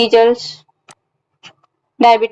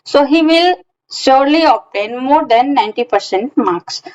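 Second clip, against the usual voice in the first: slow example reading; much slower than usual. Shown as a demonstration. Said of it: "example sentence read out".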